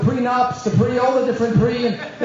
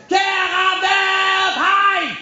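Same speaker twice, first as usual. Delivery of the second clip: shouted Yiddish slogan; 11 semitones higher, much slower than usual. Retold or imitated. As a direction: belt it out like a rallying call. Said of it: "he didn't say it like I said it".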